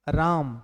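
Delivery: राम with the "aa" held long; drawn-out vowel in राम; stress on the vowel. Shown as a demonstration. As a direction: put the weight on आ in राम. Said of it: "आ पर विशेष बल पड़ गया".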